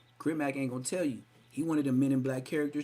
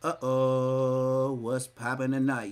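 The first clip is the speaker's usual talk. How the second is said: louder hyped call; imitating the intro hype; 6 dB louder, much slower than usual. Imitating a song's intro, louder hyped call. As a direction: shout it out like an MC. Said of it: "he's the intro".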